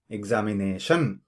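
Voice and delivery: examination with TION punched; wrong final stress. Shown as a demonstration. Teacher shows another mistake, examination stressed on TION. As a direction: push the weight onto the last syllable of examination. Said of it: "listen to the sounds that I made".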